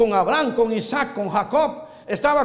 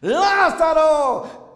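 drawn-out call; 4 semitones higher, much slower than usual. Acted. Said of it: "calling Lazarus again".

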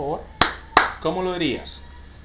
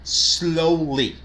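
slow model sentence; much slower than usual. Shown as a demonstration. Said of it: "So the sentence will be".

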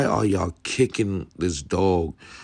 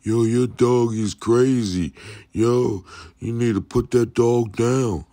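hammed-up scared bystander shouting; mock yelling bystander; 5 semitones higher than usual. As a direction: imitate the crowd yelling at the dog owner. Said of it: "Now they screaming at the person".

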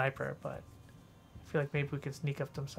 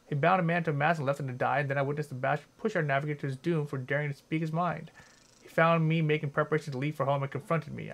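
reading aloud; 3 dB louder than usual. Acted. Reads note aloud.

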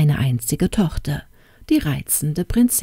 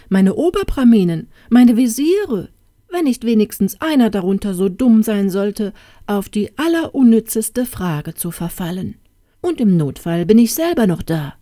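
higher, louder pompous king; smug king; 4 semitones higher, 3 dB louder than usual. Acted. King boasting about his professors and viziers. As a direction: boast grandly to the court.

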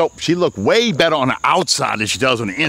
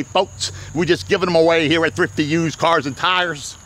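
announcer voice. Shown as a demonstration. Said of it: "That's my announcer voice".

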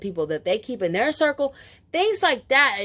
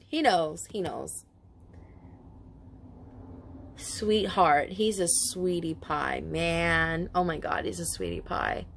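tender; 4 semitones lower, 5 dB quieter, slower than usual. Real, not acted. Moved by friend's husband coming through.

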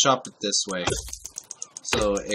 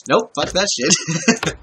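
retold blunt refusal, higher and louder; raised-voice mock refusal; emphatic refusal; 6 semitones higher, 6 dB louder, much slower than usual. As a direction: imitate yourself flatly turning it down, loudly. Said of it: "and I'm like".

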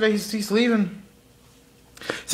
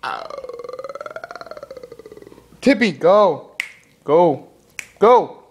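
mock alien voice; slower than usual. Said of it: "He's like".

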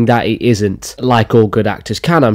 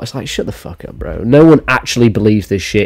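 ordinary talk, nothing marked

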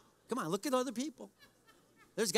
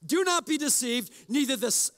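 self-righteous reading; 2 semitones higher, 4 dB louder than usual. Shown as a demonstration. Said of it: "I want you to be really self-righteous".

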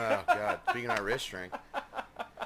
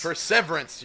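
Perseverance echoed with stress on SEV; mimicked wrong stress; 2 semitones higher, 4 dB louder than usual. Friend mocking the mispronunciation, Perseverance stressed on the second syllable. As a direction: say Perseverance as per-SEV-erance, imitating the mistake. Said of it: "You're putting the emphasis on the wrong syllable".

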